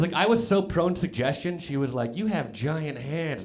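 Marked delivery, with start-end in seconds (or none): 2.2-3.4 slow suggestive line. Retold or imitated. Girl's suggestion retold.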